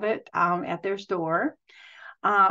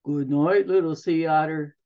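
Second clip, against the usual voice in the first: snorting seals; 3 semitones lower than usual. Acted. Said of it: "they snorted back".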